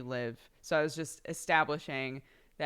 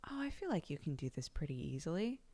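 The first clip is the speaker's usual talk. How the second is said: soft unvoiced whisper; 8 dB quieter, faster than usual. Real, not acted. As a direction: whisper it to yourself. Reassuring muttered aside.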